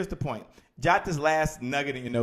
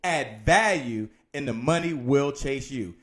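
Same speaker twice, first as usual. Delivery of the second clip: deliberate dictation; 3 dB louder, slower than usual. Shown as a demonstration. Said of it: "here it is".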